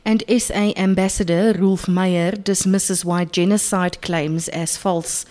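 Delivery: measured radio news delivery; news read. Acted. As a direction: read it like a bulletin. Reads the news bulletin.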